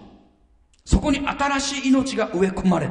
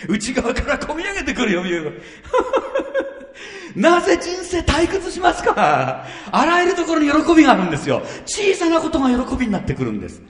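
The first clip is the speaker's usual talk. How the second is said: laughs through the words, higher and louder, bubbling over; laughing joy; 8 semitones higher, 3 dB louder than usual. Real, not acted. Preacher laughs with joy while urging the congregation. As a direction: let the joy burst out as you preach.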